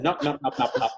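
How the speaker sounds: laughing refusal. Retold or imitated. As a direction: wave it off while laughing. She laughs off the reading.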